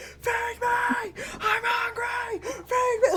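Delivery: put-on very high, shrieking toddler-like scream.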